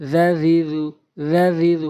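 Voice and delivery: each "জ" in "জা জি জু" a light voiced th; light dh sound. Shown as a demonstration. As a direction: say "জা জি জু" lightly, tongue tip at the teeth. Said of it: "হালকা করে".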